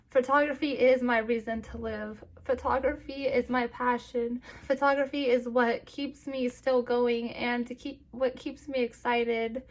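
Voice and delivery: trying to speak without crying; holding back tears. Real, not acted. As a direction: voice fighting off tears. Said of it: "trying to speak without crying".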